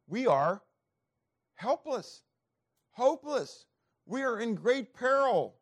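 rising preacher cry. Acted. Preacher climaxing on man's plight.

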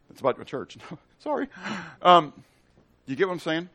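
normal talking voice

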